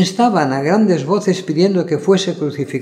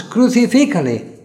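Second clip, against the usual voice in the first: high, pitched-up mob cry; crowd yelling louder; 8 semitones higher, 3 dB louder than usual. A narrator's reading. Crowd to Pilate, demanding with a high yell. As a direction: yell it as the mob pushes harder. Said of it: "gritaban aún más".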